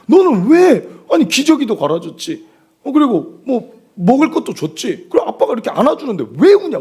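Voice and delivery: high, pleading mock complaint; exasperated father. Father to crying baby after trying everything, mock exasperation. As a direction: act out a dad at his wits' end.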